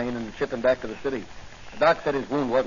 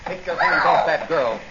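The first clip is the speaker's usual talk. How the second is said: commanding shout; 3 semitones higher, 4 dB louder than usual. Acted. Hero confronts attacker.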